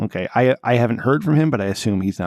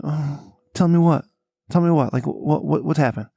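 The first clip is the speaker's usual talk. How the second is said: alarmed; 4 semitones higher than usual. Retold or imitated. Demanding to be told news.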